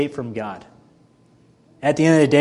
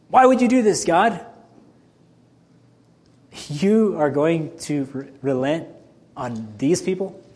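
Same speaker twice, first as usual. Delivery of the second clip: indignant complaint; 2 semitones higher than usual. Retold or imitated. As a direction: hurl the question at God in disbelief. Jonah complaining to God.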